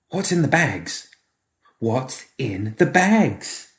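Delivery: put-on high, drawn-out child's voice, slow on the repeat; a small boy asking again, slowly; insistent child. Child repeating his question to Edmund, high and slow.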